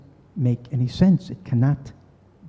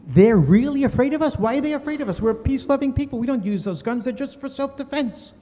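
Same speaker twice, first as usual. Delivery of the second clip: much higher, disbelieving; astonished inner voice; 8 semitones higher than usual. Retold or imitated. Hanan questioning himself in shock, astonished.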